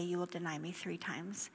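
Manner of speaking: soft whispered memory. A narrator's reading. Jesus's words recalled by Peter, whispered. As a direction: hush it like an echo in Peter's mind.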